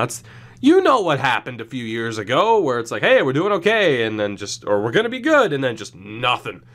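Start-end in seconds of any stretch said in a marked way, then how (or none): 3.0-4.0 mock hopeful. Mock hopeful fan quote. 4.8-5.5 mock hopeful. Mock hopeful fan quote.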